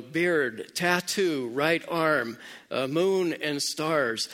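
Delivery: mild mock yell, word by word; retold yell. Kidnapped daughter yelling clues to her father, mild retold yell. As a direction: call out each item in a half-hearted yell. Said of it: "but she yells out".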